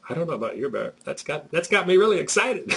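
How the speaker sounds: hammed-up sarcastic thrill; mocking excitement. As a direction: tease him with fake enthusiasm. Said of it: "He mocked me a little bit".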